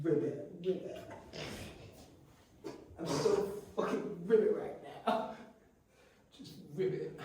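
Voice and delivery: frog voice. Pretend. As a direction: croak it like a sleepy frog. Croaking frog voice joke.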